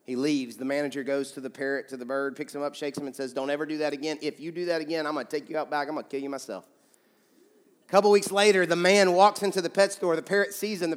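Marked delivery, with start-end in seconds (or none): 3.3-6.7 low, softer threat, trailing quieter; mock threat. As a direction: warn the parrot under your voice. Manager threatens the parrot in joke.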